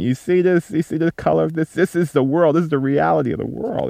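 high-pitched insistence, imitating a heated rant; retold screaming rant. Father re-enacting pinching his daughter's skin, high-pitched retold rant. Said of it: "I was screaming at Lynette".

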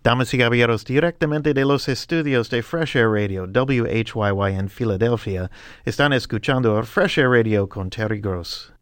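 Spanish radio announcer intro. Pretend. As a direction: announce it like a station ident. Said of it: "that's a kind of cool way of saying".

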